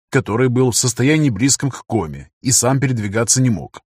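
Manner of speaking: ordinary delivery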